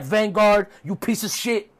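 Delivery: mildly upset imitation; mock exasperated scolding; Chris Jericho. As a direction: retell an annoyed outburst. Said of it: "Jericho's upset".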